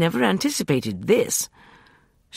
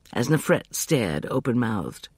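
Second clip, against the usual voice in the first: ordinary delivery, nothing marked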